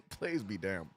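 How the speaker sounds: quiet, slow, laughing plays be damned; chuckling mutter. Real, not acted. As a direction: let it slip out through a laugh. First take, half laughing.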